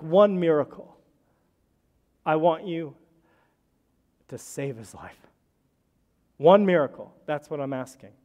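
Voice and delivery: half-yell the plea, pushing up on one miracle; retold yelling. Daughter in the hospital chapel demanding a miracle from God, mild retold yell. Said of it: "she's just yelling".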